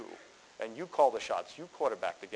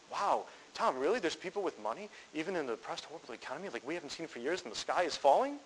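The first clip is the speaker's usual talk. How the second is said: lightly voiced wide-eyed student, pitched up; mock amazement. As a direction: play the astonished newbie, mildly hammed. Mimics amazed student's disbelief.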